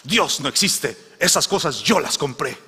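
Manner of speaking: lightly voiced, mocking neighbour; a mild mock gloat from the atheist. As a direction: gloat at catching her out. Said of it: "le dice".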